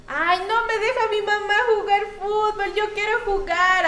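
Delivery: a child complaining about mom, mock-sad. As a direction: whine like a kid denied football. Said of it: "así".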